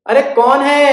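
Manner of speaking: high, loud granny cow; old cow. Acted. Cow asks who.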